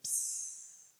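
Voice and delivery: low, soft hush into peace; gentle fading hush; hushed calm. Shown as a demonstration. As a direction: let the word fade like mist. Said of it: "that misty".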